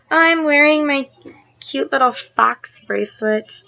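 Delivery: high, drawn-out silly gushing voice; excited shopper voice. Acted. Vlogger gushing over a fox bracelet, silly excited voice. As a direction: gush in a squashed, put-on voice. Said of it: "I don't know why I talk like that".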